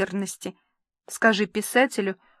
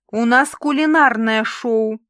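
howling protest; 5 dB louder than usual. Acted. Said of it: "взвыла Валечка".

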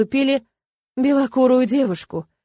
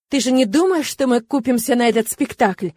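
contemptuous scoff; 3 semitones higher, 3 dB louder than usual. Acted. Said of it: "презрительно фыркнул Александр".

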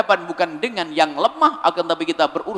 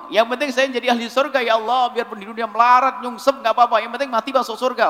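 mock careless prayer; 4 semitones higher than usual. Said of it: "jangan ngomong gitu".

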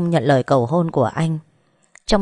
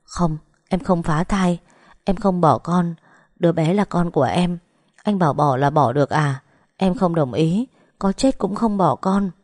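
tearful refusal. Acted. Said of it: "Dung khóc khàn giọng, kiên quyết bảo vệ con".

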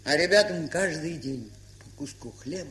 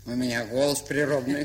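laughing; 6 semitones lower than usual. Acted. Pasha boasting of her voice, laughing.

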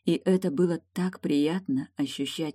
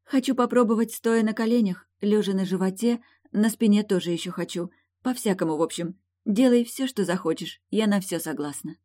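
put-on eager young princess; 6 semitones higher than usual. A narrator's reading. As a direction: play Eilin, eager and breathless with wanting. Eilin voiced by narrator.

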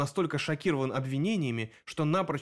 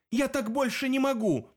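outburst; 10 semitones higher than usual. A narrator's reading. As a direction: voice jumps high in a sudden cry. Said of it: "вскричал обычно тихий Илья".

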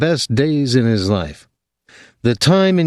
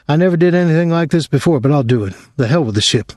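nervous resolve; 6 semitones higher, faster than usual. A narrator's reading. Dwyer gives in, nervous resolve.

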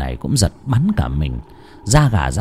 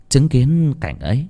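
ordinary delivery, nothing marked

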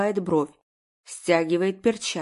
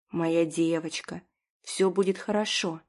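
husband comforting his crying wife softly; tender comfort; 3 semitones lower, 3 dB quieter than usual. Acted. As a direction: soothe her gently.

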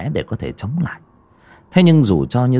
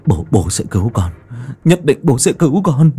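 determined vow; 3 semitones higher than usual. Acted. Father vowing to save son.

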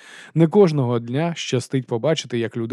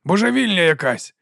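shouted over the crowd; 7 semitones higher than usual. Acted. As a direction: call out across the din. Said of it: "крикнув Ваймс".

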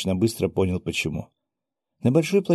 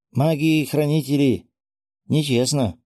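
raised, higher protesting voice; indignant cry; 6 semitones higher than usual. A narrator's reading. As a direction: cry foul from the losing side. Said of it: "закричал поверженный японец". (возмущённый выкрик)

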